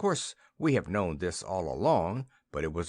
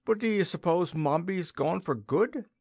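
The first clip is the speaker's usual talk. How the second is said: put-on girl's voice; 8 semitones higher than usual. A narrator's reading. Rosa Mary voiced.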